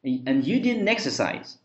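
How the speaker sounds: slow "didn't exercise" with N linked and T dropped; linked pronunciation. Shown as a demonstration. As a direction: run "didn't exercise" into "didn-nexercise". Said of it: "生连读". (“didn't”的N与“exercise”连读，T不读)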